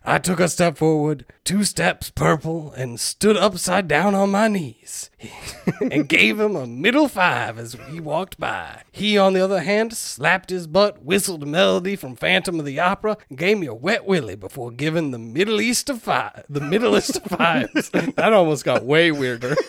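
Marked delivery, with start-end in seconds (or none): 0.1-5.1 put-on wandering Southern accent. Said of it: "this accent is going to go". 5.8-17.9 light put-on Southern accent; wandering Southern accent. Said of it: "this accent is going to go".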